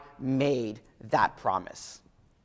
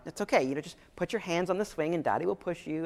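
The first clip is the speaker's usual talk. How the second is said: soft, gentle reassurance; reassuring dad; 7 dB quieter than usual. Retold or imitated. Dad calms scared daughter on swing, softly. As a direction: coax her softly to let go. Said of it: "I'm like".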